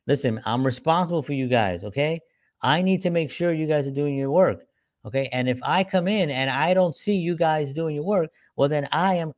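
lightly voiced boss talking at staff; bossy boss. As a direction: lay down the law as the boss. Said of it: "A boss says "I".

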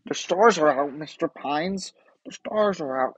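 lightly voiced stargazer; Gravity Falls character. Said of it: "I can't do Mister Pines".

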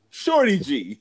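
squeaky high "Shorty G". Pretend. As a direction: pitch way up for the joke. Joke name, very high squeak.

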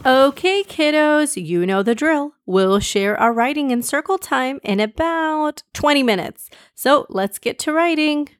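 put-on lilting instructions to young kids; upbeat teacher. Missus Ellis instructing her class, lightly voiced upbeat teacher.

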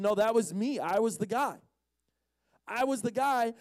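mildly insistent, pitch rising on the repeat. Acted. Healed man to doubting neighbours, mildly insistent. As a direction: insist a little harder each time. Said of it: "but he himself insisted".

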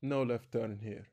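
badly faked French accent; failed French accent. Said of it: "I can't do a Par-, uh, French accent, as you can see".

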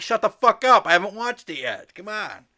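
high, mock-annoyed outburst; exasperated. Host silencing friends before they spoil it, mock exasperation. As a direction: start loud and high, then drop to a pleading finish.

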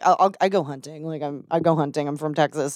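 slipping into a Texas accent. Real, not acted. Texan explaining to comic that they go hunting, Texas accent. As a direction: let the Texas twang creep into hunting talk. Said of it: "Why'd you say it like that?".

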